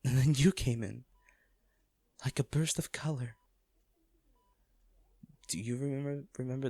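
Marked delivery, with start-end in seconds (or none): 2.2-6.7 a hushed, tender whisper; whispering the memory to someone who may not hear. Acted. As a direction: breathe it out in a whisper.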